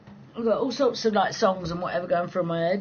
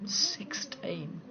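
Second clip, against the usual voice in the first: whisper; 3 semitones higher, 10 dB quieter than usual. Real, not acted. Whispering the son's age aside.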